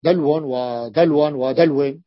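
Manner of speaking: دلو ودلو ودلو said slowly and carefully; teacher drilling the word; slow repeated demo. Shown as a demonstration. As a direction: repeat دلو three times, deliberately. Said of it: "تقلبها همزة لا تستطيع".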